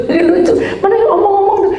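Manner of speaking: high, loud, laughing through the words; can't stop laughing while telling it; real laughter breaking into the story. Real, not acted. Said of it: "saya jadi ketawa sih".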